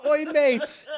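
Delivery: loud, high fake Aussie greeting; mock Australian accent. Guy showing his friend the same accent, loud mock Australian. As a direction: belt out a hammed-up Australian accent. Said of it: "Like the same accent".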